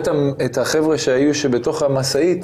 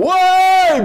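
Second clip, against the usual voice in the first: high, loud cry of alarm; sudden scared cry; panicked yelp; 6 dB louder, much slower than usual. Retold or imitated. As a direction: yelp in terror at the crash. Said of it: "או".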